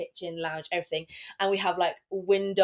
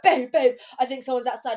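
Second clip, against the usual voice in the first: raised, urgent mock alarm; retold alarm; 5 semitones higher, 4 dB louder than usual. Host retelling waking partner over stranger outside, urgent mock alarm. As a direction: reenact an urgent wake-up call.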